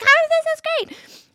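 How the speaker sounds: high-pitched delighted imitation; thrilled kid. Child loving the rough boat ride, high and delighted. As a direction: chirp it like a kid having fun.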